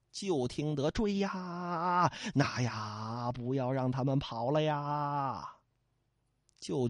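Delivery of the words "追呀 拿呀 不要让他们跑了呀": softer, slow calls as if from far off; distant shouting. Acted. Pursuing villagers heard from afar, soft distant cries. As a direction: voice a crowd hollering far away.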